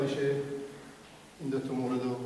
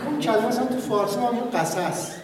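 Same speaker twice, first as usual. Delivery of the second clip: laughing; 7 semitones higher, 4 dB louder than usual. Real, not acted. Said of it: "laughing explanation".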